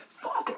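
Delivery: breathy mock scream; hissy, voiceless scream imitation; imitated screamed vocal. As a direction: imitate a harsh metal scream without full voice. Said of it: "and he's like".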